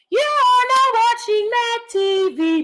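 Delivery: high, slow hammed-up announcer. Mimicking the show intro as a big announcer. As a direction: boom it out like the show's intro.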